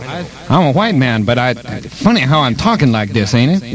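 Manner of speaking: put-on caricatured African American dialect accent. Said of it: "talk in a Negro accent".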